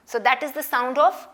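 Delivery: very slow, deliberate summary; slow teaching. Shown as a demonstration. Teacher slowly sums up the K sound. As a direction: say it slowly for children. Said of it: "teacher slow summary".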